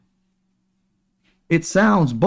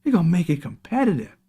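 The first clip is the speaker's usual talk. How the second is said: higher, sing-song mock of the pitch; mocking higher sing-song slogan; 5 semitones higher than usual. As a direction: parody the promise sweetly. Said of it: "Sound good, didn't it?".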